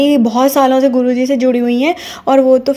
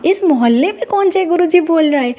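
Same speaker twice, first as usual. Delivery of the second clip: surprised; 5 semitones higher than usual. Retold or imitated. Surprised to hear guru's name.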